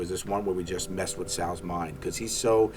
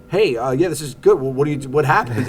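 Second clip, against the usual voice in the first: imitating network exec; 6 semitones higher, 9 dB louder than usual. Network calls back about idea.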